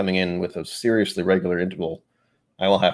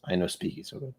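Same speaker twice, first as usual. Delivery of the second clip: stiff then suddenly casual; 2 semitones lower, 10 dB quieter than usual. Pretend. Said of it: "professional voice contrast".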